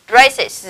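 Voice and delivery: "braces" with a clear second syllable, -iz; IS plural ending. Shown as a demonstration. Teacher modelling a plural for students, "braces" ending in -iz. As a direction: model "braces" carefully, holding the final buzz. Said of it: "đọc thành".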